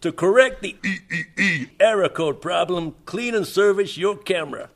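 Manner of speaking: reading in a mock New York American accent, Russian-tinged; a half-hearted New York accent; attempted New York accent. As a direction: put on a shaky New York accent for the letter. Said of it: "You sound like a Russian by way of New York".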